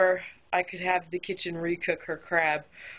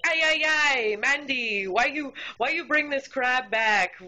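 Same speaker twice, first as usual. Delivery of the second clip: exasperated coworker; 5 semitones higher than usual. Retold or imitated. Expo scolding the server about the crab, high and whiny. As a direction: whine it like a harried expo.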